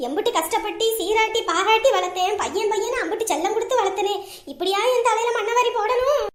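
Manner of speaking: acted mother's wailing complaint; tearful lament. Mother bewails her two wayward children, tearful lament. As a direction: lament like a wronged, weeping mother. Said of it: "ஏம்மா, நீ எதுக்கும்மா அழுகுற?".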